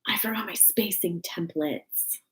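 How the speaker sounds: slow whisper to herself; whispering an aside; slow private whisper. Real, not acted. Muttering to herself mid-craft.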